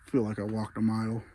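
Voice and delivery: panting between words; winded, catching your breath as you talk. Real, not acted. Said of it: "Excuse me if I'm out of breath".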